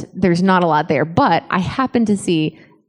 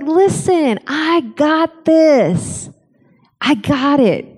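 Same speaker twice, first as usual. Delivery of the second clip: reassuring God; 5 semitones higher, much slower than usual. Retold or imitated. Voicing God reassuring a discouraged believer.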